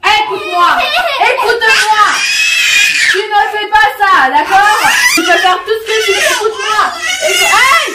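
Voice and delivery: high, insistent real telling-off; stern scolding. Real, not acted. Adult making a child listen, stern scolding.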